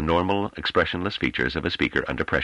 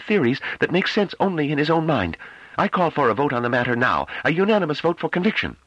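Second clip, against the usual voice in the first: higher, louder, tightly held anger; tense controlled voice; 3 dB louder than usual. Acted. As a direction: keep the fury barely reined in. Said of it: "spoke in a tense but tightly controlled voice".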